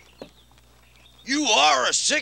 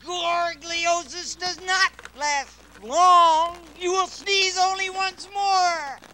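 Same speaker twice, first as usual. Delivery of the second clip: fake genie voice; 3 semitones higher than usual. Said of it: "Your voice has changed".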